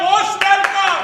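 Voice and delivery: high, loud, ringing welcome; emphatic welcome. Retold or imitated. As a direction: throw the door wide open. Quoted guru's open invitation. (ઉત્સાહથી ઊંચા અવાજે આવકાર)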